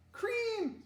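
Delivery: high-pitched eager exclamation; excited calling out. Acted. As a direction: call it out high and loud, falling at the end. Child calls out at table.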